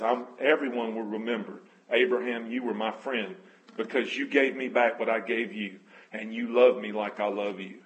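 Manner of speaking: low, moved preacher voice; close to tears. Real, not acted. Preacher voicing God calling Abraham his friend, close to tears. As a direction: speak God's words low, deeply moved. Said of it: "I'm about to cry".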